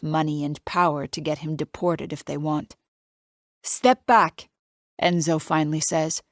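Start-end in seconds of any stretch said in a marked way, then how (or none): 3.6-4.5 put-on light Italian accent. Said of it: "His Italian accent isn't even that thick".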